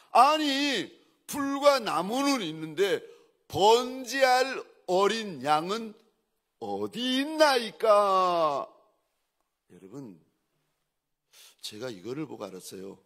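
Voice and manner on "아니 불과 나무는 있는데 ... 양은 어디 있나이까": son's high, insistent question, slowing toward the end; Isaac. Acted. Isaac asking his father about the lamb, pleadingly questioning. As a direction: ask it raised and drawn out, stretching the last words. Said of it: "갑자기 아들 이삭이, 아비에게 이렇게 말합니다".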